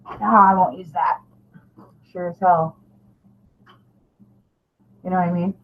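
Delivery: ordinary talk, nothing marked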